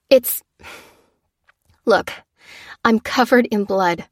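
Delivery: high, loud exasperated rant; angry outburst. Acted. Lucy lashing out at the soldiers, high and loud. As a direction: let the fury spill out.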